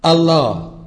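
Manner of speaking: الله said loud and drawn out, falling at the end; pronunciation demo. Shown as a demonstration. Lecturer citing a Greek word that sounds like Arabic, الله pronounced emphatically. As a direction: sound out الله firmly and fully, as a cited word. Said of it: "كلمة بتنطق".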